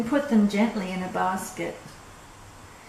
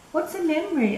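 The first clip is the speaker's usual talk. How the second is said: put-on raised childlike asking voice; childlike question; 8 semitones higher, faster than usual. Little boy asking an old neighbour, voice raised. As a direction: ask it like a curious little boy.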